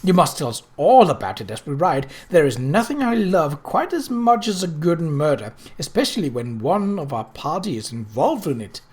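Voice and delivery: gushing thrilled society lady; delighted chatter. Acted. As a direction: relish every scandalous word. Eleanor thrilled by murder news.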